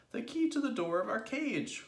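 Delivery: high, loud explanation; urgent cry. A narrator's reading. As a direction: cry out across a distance. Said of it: "cried Mugglewump".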